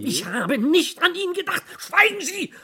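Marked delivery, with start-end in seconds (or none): 1.8-2.5 angry shout. Acted. Furious order to stop.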